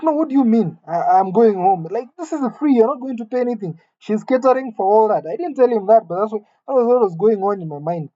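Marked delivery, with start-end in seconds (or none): 0.0-5.2 put-on pitched-up pleading kid voice; childish protest. To her father about staying home, a pitched-up childish protest. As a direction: whine it like a seven-year-old who can't believe it.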